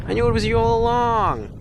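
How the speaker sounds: high, gleeful gotcha; triumphant cartoon detective. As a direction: unmask the villain with glee. Cartoon detective unmasking villain.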